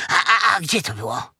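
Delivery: high, quick stammered question; stammering piglet. Acted. Piglet asks nervously.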